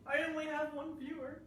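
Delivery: self-mocking joke into a laugh; rueful giggle; real laugh at her own joke; laughing at herself. Real, not acted. Joking about one viewer.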